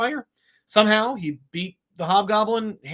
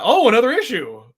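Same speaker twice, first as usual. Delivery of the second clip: mock weary, higher and louder; mock jaded reader; 7 semitones higher, 8 dB louder than usual. Host mocking readers tired of decompressed issues, mock weary. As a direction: mimic a bored fan rolling their eyes. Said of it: "this whole, like".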